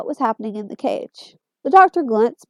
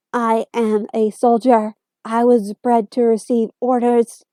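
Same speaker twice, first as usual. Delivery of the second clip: Dalek voice; 3 dB louder, slower than usual. Acted. Dalek speaking in a slow monotone.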